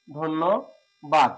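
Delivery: ধন্যবাদ drawn out very slowly, each sound held; very slow demo. Shown as a demonstration. Teacher drawing out ধন্যবাদ for learners, very slowly. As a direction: stretch out ধন্যবাদ as slowly as you can. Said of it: "সঠিক উচ্চারণ হচ্ছে ধন্যবাদ".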